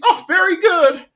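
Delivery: high, loud, prim self-satisfied praise; proud Peggy voice. Retold or imitated. Peggy praising a student's Spanish, high and pleased. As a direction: chirp it out like a pleased schoolteacher.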